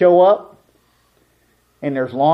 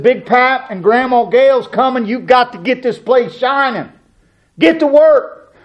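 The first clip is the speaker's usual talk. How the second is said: higher, louder rallying call, building to Get to work; urgent order to kids; 7 semitones higher, 4 dB louder than usual. Retold or imitated. Father rushing his kids to clean before grandparents arrive, higher and louder. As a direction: hurry the kids up, pushing harder at the end.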